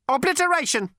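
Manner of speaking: high, cold, lifeless ancient robot voice; cold cultured robot rasp. A narrator's reading. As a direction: speak like a sleek machine ten billion years old.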